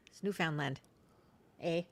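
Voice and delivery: mild Canadian accent with eh. Shown as a demonstration. Co-host shows how Canadians say it, Canadian accent. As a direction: say Newfoundland like a Canadian. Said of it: "Say it like a Canadian".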